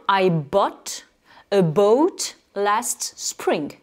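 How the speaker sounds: slow demo of "I bought a boat last spring", short vowel in "bought", long in "boat"; careful English; English example. Shown as a demonstration. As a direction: contrast the two vowels slowly. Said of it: "je vais dire".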